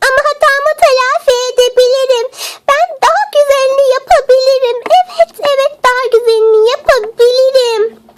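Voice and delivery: high, eager pleading; desperate pleading. Acted. Begs to make up for mistake.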